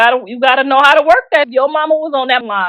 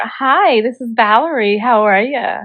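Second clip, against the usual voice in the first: put-on white American phone greeting. Shown as a demonstration. Phone worker greeting a white man, put-on white voice. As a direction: answer in a polite mock white accent. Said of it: "your white voice".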